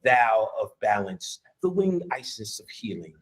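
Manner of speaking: mock lofty spirit. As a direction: ham up a grandiose goddess announcing herself. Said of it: "anybody in a lecture talk like that".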